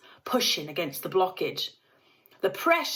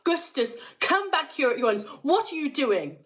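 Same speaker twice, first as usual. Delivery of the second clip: scolding mother; 7 semitones higher than usual. A narrator's reading. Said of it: "shouted Missus Gloop".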